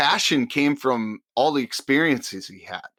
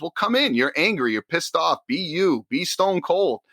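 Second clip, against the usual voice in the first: imitating Heyman; 6 semitones higher than usual. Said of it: "He goes".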